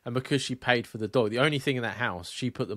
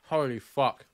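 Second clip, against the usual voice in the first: shocked outburst; 3 semitones higher, 4 dB louder, slower than usual. Real, not acted. Biting very spicy sandwich.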